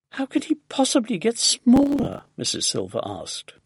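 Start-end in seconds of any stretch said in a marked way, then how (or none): 0.1-2.2 high, incredulous question; puzzled disbelief. A narrator's reading. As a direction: ask as if it's impossible, lightly acted.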